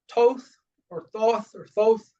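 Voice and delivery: "Thoth" said three different ways, slowly; alternative pronunciations. Shown as a demonstration. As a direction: slowly offer each variant pronunciation of "Thoth". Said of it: "depending on how you say it".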